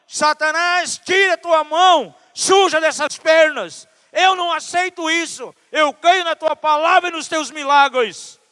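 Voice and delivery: loud, high-pitched angry rebuke of Satan; re-enacted furious deliverance prayer; righteous anger. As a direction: command the enemy away in full-force prayer. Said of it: "veio aquela raiva contra o inimigo".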